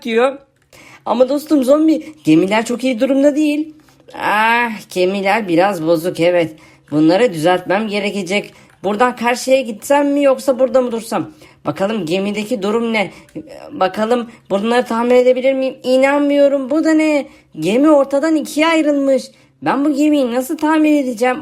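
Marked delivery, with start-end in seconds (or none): 4.1-15.8 lightly lowered, lazy zombie voice; zombie friend voice. Acted. YouTuber voicing his zombie friend for viewers, lightly lowered zombie voice.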